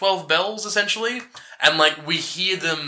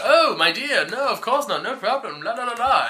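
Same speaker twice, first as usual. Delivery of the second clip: breezy king; 6 semitones higher than usual. Retold or imitated. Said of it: "the king is like".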